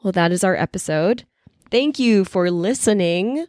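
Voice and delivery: talking while sick, a bit stuffy. Real, not acted. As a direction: speak with a head cold. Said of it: "I'm sick".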